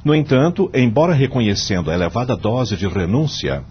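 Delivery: measured, solemn judge delivering his vote; formal court speech. Acted. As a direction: argue the case gravely before the court.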